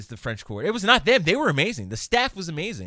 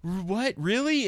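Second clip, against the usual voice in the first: mock surprise; 8 semitones higher, slower than usual. Woman's shocked reply.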